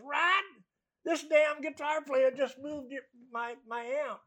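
slow, high telling-on-you complaint; imitating a complaining guitarist. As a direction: mimic the old bluesman running to the bandleader. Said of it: "this little short guy comes running past me and goes".

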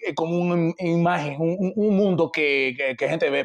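halting, casual Dominican accent; broken Dominican Spanish. Shown as a demonstration. Answering an interviewer about getting married, Dominican accent. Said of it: "we can do my broken Dominican Spanish".

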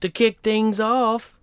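lightly deep spokesman read; a hint of a smooth promo pitch; low promo voice. Spoof musician promo.

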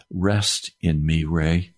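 slow, low, gentle voice of the Lord; kindly. Retold or imitated. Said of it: "very kindly he said".

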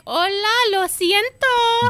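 put-on very high, drawn-out Hispanic girl voice; mock Latina accent. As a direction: squeal it in a hammed-up Spanish accent. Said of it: "So you'll be like, uh, the girl".

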